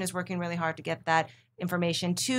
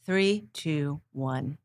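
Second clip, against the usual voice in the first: anchor's countdown to air; 3 semitones lower, much slower than usual. Shown as a demonstration. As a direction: count down into the broadcast. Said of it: "to get into your anchor voice".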